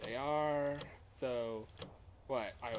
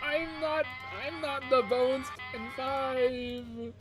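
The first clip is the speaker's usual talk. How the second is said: higher, louder, pleading in a rush; frantic panic; 11 semitones higher, 7 dB louder than usual. Real, not acted. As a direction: beg the dice in a panic. Frantic rolling during attack.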